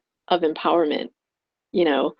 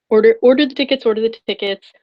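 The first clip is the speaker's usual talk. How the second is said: a touch louder, insistent inner voice; inner voice urging; 3 semitones higher, 4 dB louder, faster than usual. Retold or imitated. Her intuition urging her to order tickets. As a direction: press the order lightly. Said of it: "that voice was telling me".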